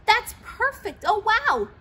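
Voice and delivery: high, loud "oh, wow"; thrilled shout. A narrator's reading. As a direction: bubble over with delight. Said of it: "the cow, cow shouted".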